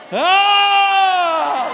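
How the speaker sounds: long, high, loud yell; sustained full-voice "aaah"; long shout. Acted. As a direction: let out a drawn-out high cry. Acting out reaction to revival.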